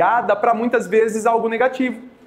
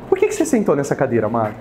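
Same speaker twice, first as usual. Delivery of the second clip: a lower, gentle question full of affection; loving and tender; 5 semitones lower, faster than usual. Shown as a demonstration. Asking a colleague why he sat there, tender and lower. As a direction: ask it with love and care, not accusing. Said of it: "vou perguntar no estilo Dani, com muito amor e carinho".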